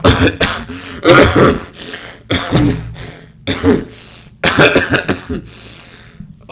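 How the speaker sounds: long hacking cough; a real, uncontrolled cough; real coughing fit. Real, not acted. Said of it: "that one was for real".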